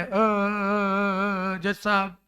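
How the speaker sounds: whimpering fake sob to the judge; mock crying plea. Shown as a demonstration. Teacher pretends to cry, begging the judge for money. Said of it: "रो के बताओ".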